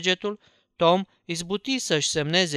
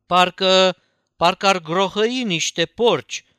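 alarmed exclamation; 3 semitones higher, 6 dB louder than usual. Acted. Boy alarmed by strange noise.

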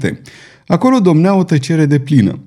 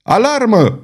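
a high howling cry, much higher; yelling alarm; 9 semitones higher than usual. A narrator's reading. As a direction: raise the alarm at the top of your voice. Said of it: "urlă Comtois".

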